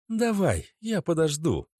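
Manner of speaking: put-on high young woman's voice, impatient; girlfriend voice. A narrator's reading. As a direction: lift into the girlfriend, curt.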